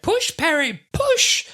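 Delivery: high-pitched urging shout; mock urgent yell. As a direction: urge your helper frantically. Acting Doctor urging on gurney.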